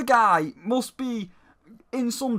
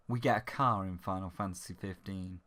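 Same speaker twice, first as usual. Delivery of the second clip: whisper; 14 semitones lower, 9 dB quieter than usual. Real, not acted. Conspiratorial aside.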